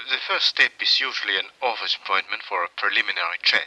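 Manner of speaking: put-on light Viennese accent, quick and polite; a gently Viennese psychiatrist, brisk and courteous. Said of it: "and charmingly Viennese".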